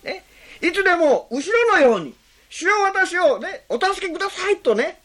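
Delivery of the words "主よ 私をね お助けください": earnest plea. Shown as a demonstration. Preacher showing how to cry to Jesus, earnest. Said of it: "真剣で、全くより頼んだような叫び".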